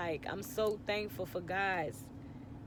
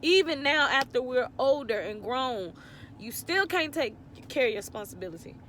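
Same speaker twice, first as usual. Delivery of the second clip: hurt, louder outburst at an absent father; real emotion, voice pushing higher and louder; emotional; 3 semitones higher, 4 dB louder than usual. Real, not acted. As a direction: let the anger and tears rise together. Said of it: "I'm gonna get emotional thinking about it now".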